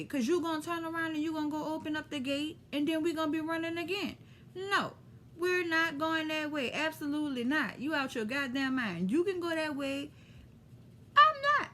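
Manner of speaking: retold flat refusal. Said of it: "we was like".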